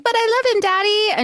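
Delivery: high-pitched imitated plea; mock daughterly protest. Retold daughter protesting to father.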